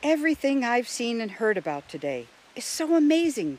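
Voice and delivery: high voice full of wonder; amazed Jill. A narrator's reading. Jill marveling at all she has seen, amazed.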